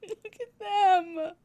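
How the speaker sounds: gushing squeal. Real, not acted. Gushing over characters again.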